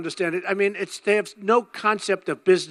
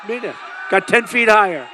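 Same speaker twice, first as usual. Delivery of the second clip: shouted repeat; 2 semitones higher, 5 dB louder than usual. Real, not acted. Crowd-pleasing repeat of punchline.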